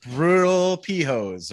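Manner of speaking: mock Boston accent, slow; drawn-out Boston mispronunciation. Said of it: "Not catheter, like you keep saying".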